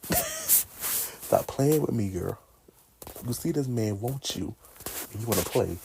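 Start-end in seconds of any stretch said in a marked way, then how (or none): 0.1-2.4 slow, drawn-out, high scold. Pretend. Telling Anastasia off, a slow teasing scold. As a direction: drag it out, telling her off.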